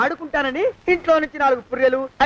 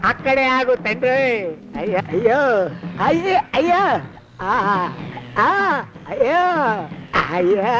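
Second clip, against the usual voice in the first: comic wails of fear while being beaten; hammed-up yelps, ayyo after ayyo; mock cries of pain; 3 semitones lower, slower than usual.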